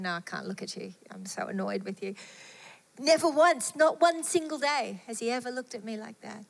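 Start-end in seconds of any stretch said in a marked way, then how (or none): 0.0-2.2 muttered annoyance. Retold or imitated. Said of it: "rolled eyes".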